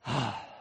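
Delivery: low, weary sigh before the apology; a sorrowful exhale; heavy sigh. Shown as a demonstration. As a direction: sigh out your regret. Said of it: "says sorry like this".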